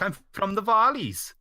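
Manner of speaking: put-on lightly done Welsh Valleys accent; a hint of a Welsh Valleys lilt. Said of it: "she'd have an accent like this".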